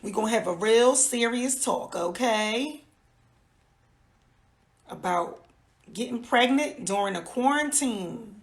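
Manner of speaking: a light Georgia accent. Shown as a demonstration. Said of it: "Put my Georgia voice on for y'all".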